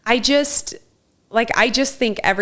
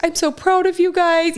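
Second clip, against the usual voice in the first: retold tearful pride; 9 semitones higher than usual. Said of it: "been crying and been like".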